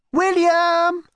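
high drawn-out call of a name; calling out, long and high; yell. A narrator's reading. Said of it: "she yelled".

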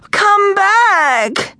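high, desperate call; pleading. A narrator's reading. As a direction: call after them, begging. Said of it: "pleaded Miss Wolf".

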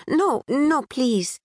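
put-on a touch of Pakistani accent. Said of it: "a bit sing-song, infused with a British twang".

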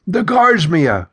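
slow, panting words; out of breath. A narrator's reading. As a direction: gasp it out, still winded. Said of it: "trying to catch her breath".

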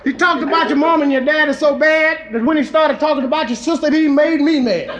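rhythmic comic storytelling in verse; rhymed toast recitation. A narrator's reading. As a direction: recite it like a bawdy rhyming tale.

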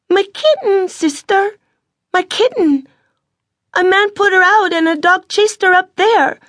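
put-on a tearful little boy explaining to his sister; young child near tears over his kitten; little boy Emil. A narrator's reading. Emil, small boy, upset.

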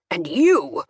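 menacing growl at the other man; threatening father's growl. A narrator's reading. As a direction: turn on him with a growled warning. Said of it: "I gathered that growl was for March".

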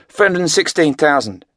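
a frightened middle-aged man reporting figures; nervous older man. A narrator's reading. Money counter nervously reporting the cash to Craig, anxious.

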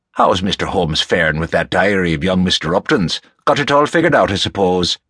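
lightly voiced genial Irishman, curious; genial Rafferty. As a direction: play a friendly, folksy questioner.

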